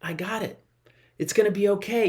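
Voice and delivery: easy, unbothered comfort; parent reassuring. Retold or imitated. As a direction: brush it off kindly like a father. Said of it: "God's looking down like a parent just going".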